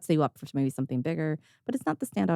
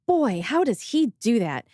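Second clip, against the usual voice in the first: imitated amazement; 5 semitones higher, 4 dB louder than usual. Retells impressed client marveling at newsletter.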